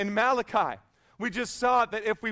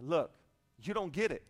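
calm, low, unbothered delivery; deadpan the relaxed castaway, in no hurry; kicked back; 5 semitones lower, 4 dB quieter than usual. Acted. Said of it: "just kicked back".

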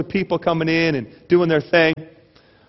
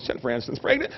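mock consoling; 6 semitones lower, 8 dB quieter, faster than usual. Consoling someone at the hospital.

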